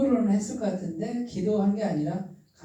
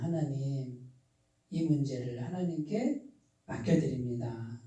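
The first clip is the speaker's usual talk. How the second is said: quiet prayer; 4 semitones lower, 5 dB quieter than usual. Shown as a demonstration. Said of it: "조용히 기도하고".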